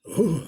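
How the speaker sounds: short voiced exhale of "oh"; brief "oh", with no creepy moan; contrasting short "oh". Shown as a demonstration. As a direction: let out a plain voiced "oh". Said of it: "It wasn't like a".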